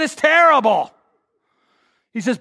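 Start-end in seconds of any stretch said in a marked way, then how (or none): 0.0-0.9 high, louder whiny admission; friend admits it. Retold or imitated. Friend confesses his prayer life, high whiny admission. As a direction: squeak it out, embarrassed. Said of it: "He said".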